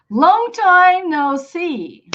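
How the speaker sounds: very slow, high, drawn-out demonstration; unhurried repeat-after-me delivery; slow model phrase. Shown as a demonstration. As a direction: stretch each word for learners to repeat. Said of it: "repeat after me".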